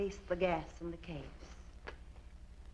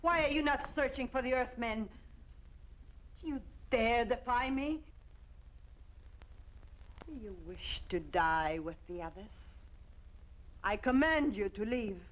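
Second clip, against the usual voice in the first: evil queen; 2 semitones higher than usual. Acted. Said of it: "villain queen threatens her people".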